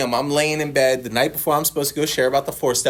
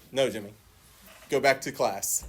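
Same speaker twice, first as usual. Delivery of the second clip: retold quiet dismissal; 6 dB quieter than usual. Acted dismissive reply to the caller.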